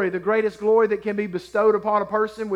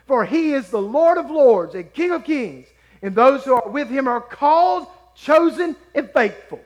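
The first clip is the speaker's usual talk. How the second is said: forceful scripture proclamation; 4 dB louder than usual. Acted. Preacher declaring the Lord a warrior to the congregation, forceful scripture proclamation. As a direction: declare each phrase with weight, drawing out key words.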